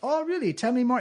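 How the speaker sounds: sarcastic, high and loud; mocking sarcasm. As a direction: taunt them, playing interested. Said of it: "mocking enemy".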